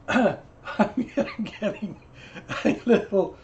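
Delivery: mock hoarse voice. Shown as a demonstration. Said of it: "I'm getting a little hoarse".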